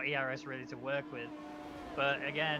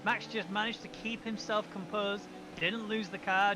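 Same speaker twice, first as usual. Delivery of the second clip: excited commentary; 3 semitones higher than usual. Real, not acted. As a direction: react to the contact live. Excited call of contact.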